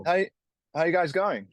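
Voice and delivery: attempted Australian accent. Shown as a demonstration. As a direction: put on an Australian accent for a greeting. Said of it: "I try to speak in the accent".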